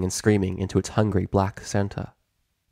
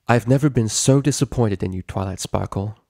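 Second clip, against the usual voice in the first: stern, disappointed royal voice; a hint of an angry queen; Princess Celestia; 4 dB louder than usual. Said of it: "with Celestia's ire".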